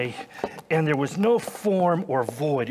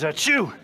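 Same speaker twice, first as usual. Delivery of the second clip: sneezing. Acted. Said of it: "excuse me while I, uh, sneeze".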